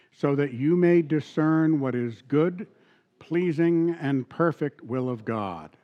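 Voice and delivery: slow, measured Bible reading; reading Romans aloud with the congregation; scripture reading. Acted. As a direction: read it out for all to follow. Reads scripture together.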